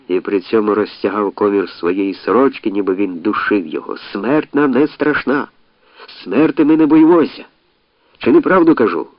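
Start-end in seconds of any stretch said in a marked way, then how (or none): 4.0-9.1 mouse-voiced oration; squeaky orator. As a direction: preach it in a thin high voice. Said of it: "писклявим, мишачим голосом".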